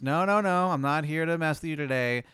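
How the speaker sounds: reassuring clown. Acted.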